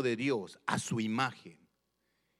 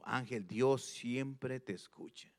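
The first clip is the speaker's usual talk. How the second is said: quiet self-talk; 6 dB quieter, slower than usual. Retold or imitated. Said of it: "me repetí a mí mismo".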